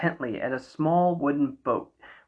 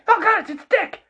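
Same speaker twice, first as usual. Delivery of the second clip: shocked; 14 semitones higher than usual. Real, not acted. Shocked reaction to robot arm.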